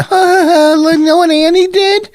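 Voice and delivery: laughing hard. Real, not acted. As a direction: squeal through the words while laughing. Cracking up at Annie story.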